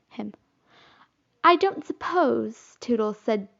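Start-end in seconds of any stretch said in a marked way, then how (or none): 1.4-2.8 diffident. A narrator's reading. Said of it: "diffidently, bashfully or timidly".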